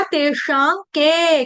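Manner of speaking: "तेषां के" slowly, with ng before "के"; nasalised ṅ. Shown as a demonstration. Teacher explaining the dot to students, slow "तेषां के" with ng. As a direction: hold a long nasal ng in "तेषां के". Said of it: "यहाँ पर उच्चारण हो गया ङ".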